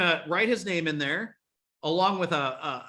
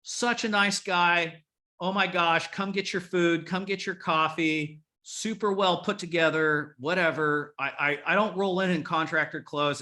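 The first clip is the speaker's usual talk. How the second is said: Brenda's gushing email. Retold or imitated.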